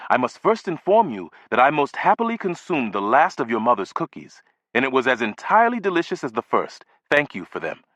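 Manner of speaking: a hint of a precise, courteous elderly neighbor; measured, polite and proper; lightly voiced formal old gentleman. Neighbor thanking the boy for cookies, lightly voiced formal old gentleman.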